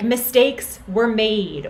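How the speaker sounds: slow, drawn-out evasive phrasing; mock politician avoiding responsibility; evasive blame-dodging. Shown as a demonstration. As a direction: dodge the blame, slowly. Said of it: "it hides blame".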